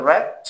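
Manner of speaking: "rat" with a clear initial r, slowly; British rat. Shown as a demonstration. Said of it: "ব্রিটিশরা বলবে". (British উচ্চারণে ধীরে "rat")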